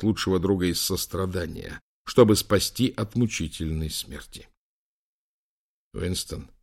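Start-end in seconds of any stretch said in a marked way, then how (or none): 5.9-6.5 soft pleading whisper. A narrator's reading. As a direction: whisper the name softly. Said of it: "прошептал Лэнгдон".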